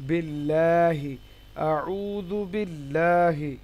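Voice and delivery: আউযু বিল্লাহি very slow, light L and long open "laa"; thin Lam pronunciation. Shown as a demonstration. Teacher shows the thin example, আউযু বিল্লাহি slow with light Lam. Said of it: "লামটা বারিক".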